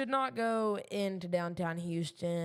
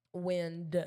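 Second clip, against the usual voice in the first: southern accent. Real, not acted. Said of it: "That's my southern accent coming out here".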